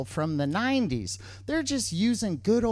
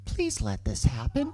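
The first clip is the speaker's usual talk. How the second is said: low, hushed mock plea; pleading; 7 semitones lower, 3 dB quieter than usual. Boyfriend silently begs his girlfriend to allow it, low pleading. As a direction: beg under your breath. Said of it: "with these pleading eyes, like".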